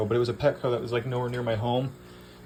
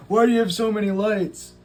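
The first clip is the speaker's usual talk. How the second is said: mock viewer question; 10 semitones higher, 7 dB louder than usual. Imagined viewer asks about lights.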